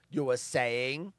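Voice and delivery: low, slow questioning drawl with rising end; movie quote. Acted. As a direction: draw it out softly, lifting at the end. Quoting a film catchphrase.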